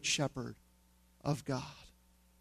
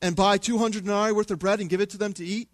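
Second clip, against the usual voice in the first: sarcastic; 2 semitones higher than usual. Retold or imitated. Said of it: "they respond with sarcasm".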